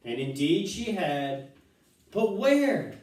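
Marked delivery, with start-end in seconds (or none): 2.1-2.9 high loud frantic question; shrieking. A narrator's reading. Missus Salt shrieking at Wonka, high. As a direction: cry out flapping her arms. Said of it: "shrieked Missus Salt".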